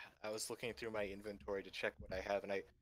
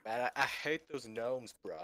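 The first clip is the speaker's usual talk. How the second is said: surfer dude. Pretend. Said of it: "surfer dude".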